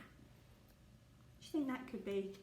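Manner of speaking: put-on breathy secret whisper to the kids. Whispering the riddle question to young listeners.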